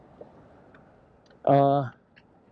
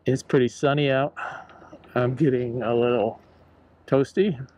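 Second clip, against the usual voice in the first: speaking through a face mask; muffled mask-covered voice. Real, not acted. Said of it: "so if I sound a little muffled".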